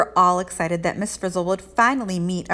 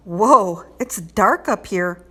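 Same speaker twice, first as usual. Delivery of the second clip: exclaiming; 4 dB louder, slower than usual. Acted. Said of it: "Wanda exclaimed".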